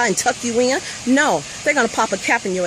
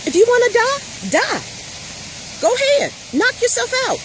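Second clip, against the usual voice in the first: mock white guy voice; 11 semitones higher than usual. Mother mocking what white people would say to Black protesters, high sneering mock voice. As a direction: play the uncaring biker who shrugs off the deaths.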